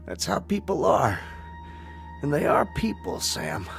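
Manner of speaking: soft, halting last words; dying words. Acted. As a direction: speak gently with long pauses, strength fading.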